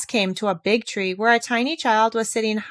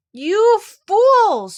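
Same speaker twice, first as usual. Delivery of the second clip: high furious scream; 12 semitones higher, 7 dB louder than usual. A narrator's reading. Old cook screaming at her servants in fury. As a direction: shriek it at the useless men. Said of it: "screamed the cook".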